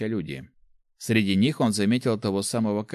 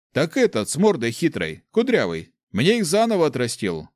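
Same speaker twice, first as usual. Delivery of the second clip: higher, louder aggrieved peasant; indignant big man; 6 semitones higher, 5 dB louder than usual. Acted. Big fellow complaining to Nick, loud and indignant.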